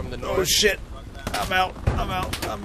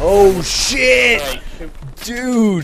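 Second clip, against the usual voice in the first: alarm shout; 5 semitones higher, 4 dB louder, much slower than usual. Real, not acted. Sudden danger in firefight.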